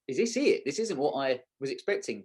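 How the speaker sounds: jumps high, then sinks into a let-down; mock disbelief. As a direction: imitate a startled, deflated realisation. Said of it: "and then you'll be like".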